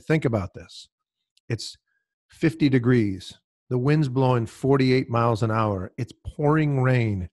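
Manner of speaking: Irish brogue. Retold or imitated. Host retelling the golfer's pressure story in a light Irish brogue. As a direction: ease into a mild Irish brogue while quoting the golfer. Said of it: "he said it in his Irish brogue".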